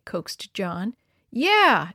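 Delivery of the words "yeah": ridiculing. A narrator's reading. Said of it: "with a note of ridicule".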